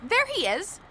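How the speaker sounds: calling out offender. Acted. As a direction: announce the culprit to the crowd.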